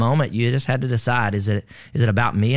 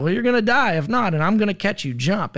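urgent order; 8 semitones higher than usual. Retold or imitated. Urgent command to jump.

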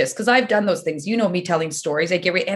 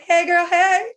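calling out to the ostrich, thrilled; excited greeting; 9 semitones higher, slower than usual. Retold or imitated. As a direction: greet the ostrich like a best friend. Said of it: "I was like".

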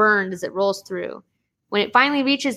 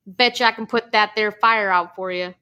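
a hint of a folksy hillbilly greeting; hillbilly accent. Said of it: "my hillbilly accent".

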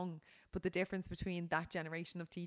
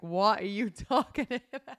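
bewildered friend; 2 semitones higher, 9 dB louder, slower than usual. Retold or imitated. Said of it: "And David would be like".

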